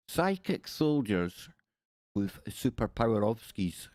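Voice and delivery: slow, hammed-up Russian accent; jokey attempt at a Russian accent; mock Russian. Shown as a demonstration. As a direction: fake Russian with "ovskis" tacked on. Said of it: "add an ovski to the end, it sounds kinda Russian".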